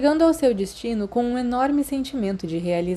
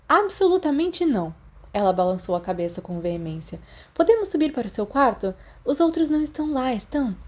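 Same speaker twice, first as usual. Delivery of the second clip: put-on a touch higher, insistent girl; lightly voiced eager girl; 4 semitones higher than usual. Lily refuses to let Remus leave, lightly voiced and insistent. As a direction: press him, a little higher.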